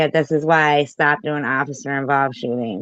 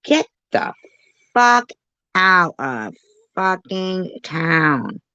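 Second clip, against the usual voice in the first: shocked yell; 6 semitones higher than usual. Real, not acted. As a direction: yell it in disbelief. Outraged at what she hears.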